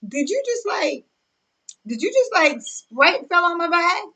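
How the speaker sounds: mock disbelief. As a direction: gasp it out in half-joking disbelief.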